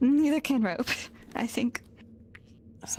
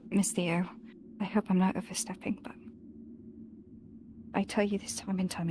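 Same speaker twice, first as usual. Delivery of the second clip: hushed whisper; 2 semitones lower, 5 dB quieter than usual. Real, not acted. Shy heartfelt confession begins.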